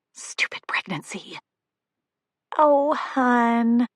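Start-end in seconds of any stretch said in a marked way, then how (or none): 2.6-3.9 fond tone. Acted. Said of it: "with nothing but fondness in her tone".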